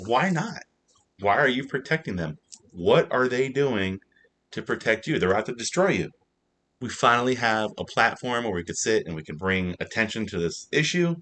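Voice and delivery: a lawyer on a crusade, hammed up; mock fired-up lawyer. Counselor defiant to Pike, retold.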